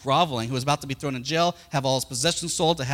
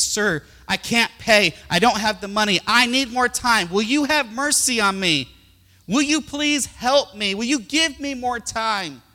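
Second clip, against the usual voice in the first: groveling plea; 7 semitones higher, 5 dB louder than usual. Retold or imitated. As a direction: beg the king for mercy. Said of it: "the guy is groveling on his knees".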